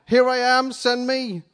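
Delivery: high, loud shout giving everything; eager shout. Acted. Isaiah answers the Lord, shouting with all he has. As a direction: shout it with all you have. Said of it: "And I shouted with all I had".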